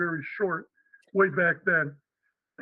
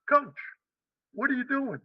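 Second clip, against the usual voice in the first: higher-voiced imitation of a boss; mock confrontation, pitched up; athletic director's challenge; 6 semitones higher than usual. Athletic director walks in on the young coach, higher mock challenge.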